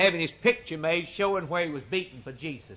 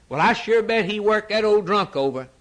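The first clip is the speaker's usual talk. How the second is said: cocksure guesser; 5 semitones higher, 3 dB louder than usual. Acted. Voices a confident mistaken guesser.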